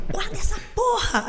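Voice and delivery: high-pitched acted cry; retold urgent warning. Friend to disguised fan across the metro, high mock shout. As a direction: imitate a friend yelling a warning.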